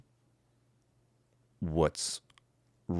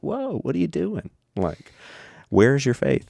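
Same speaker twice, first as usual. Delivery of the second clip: incredulous rebuke; 9 semitones higher, 4 dB louder than usual. Retold or imitated. Jesus rebukes panicking disciples.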